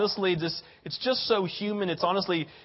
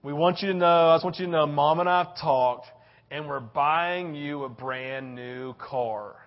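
tender parent; 5 semitones lower, slower than usual. Acted. Parent voiced announcing gift.

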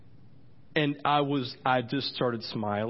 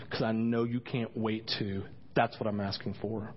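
praying. Shown as a demonstration. Pastor modelling personal prayer to Jesus, praying. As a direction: speak intimately to God. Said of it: "This is how I pray into this".

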